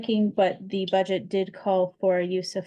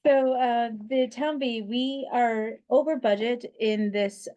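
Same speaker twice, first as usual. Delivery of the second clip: higher, firmer mom voice; teacher voice; 4 semitones higher than usual. Real, not acted. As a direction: project it like addressing a classroom. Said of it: "I can use my teacher voice".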